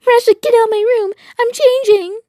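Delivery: high, fast, loud shriek; outraged shriek. Acted. Girl shrieking at Russia to leave while changing. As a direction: yell him out of the room.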